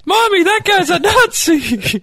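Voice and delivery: very high, slow mock child tattling; mocking him as a five-year-old telling mommy; little kid voice. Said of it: "what are you, five years old?".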